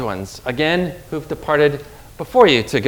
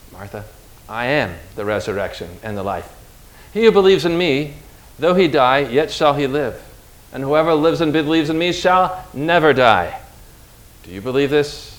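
gentle. Acted. Jesus speaking to Martha.

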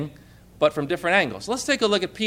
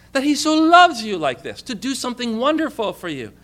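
fervent; 5 semitones higher, 3 dB louder than usual. Real, not acted. Fervent sermon climax.

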